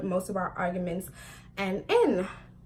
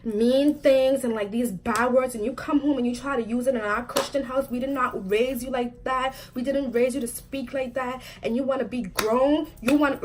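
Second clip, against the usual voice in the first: mock scolding; 3 semitones higher than usual. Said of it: "my mom's, like, yelling".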